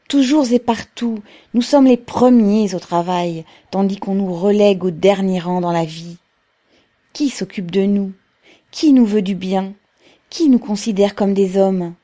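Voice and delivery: forceful public oratory; rousing speech. A narrator's reading. Pavel asks the workers who cares for them, forceful and rousing. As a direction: press the crowd with indignant questions.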